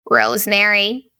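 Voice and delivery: a light take on the grandmother's scorn; grandmother impression. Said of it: "Did that sound like her?".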